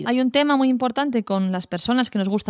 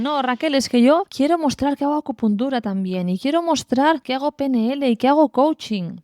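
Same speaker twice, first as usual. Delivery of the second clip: eager client; 4 semitones higher, 4 dB louder than usual. Retold or imitated. Client's eager objection quoted.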